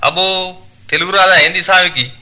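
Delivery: tailor explaining impatiently. Acted. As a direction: spell it out loudly for a stranger. (అసహనంగా వివరించే దర్జీ, యాసలో)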